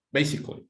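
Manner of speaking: "Basically" said as three syllables, BAY-sik-lee; teacher's dictation: "Basically" with three beats; slow model word. Shown as a demonstration. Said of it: "how many syllables can you hear?".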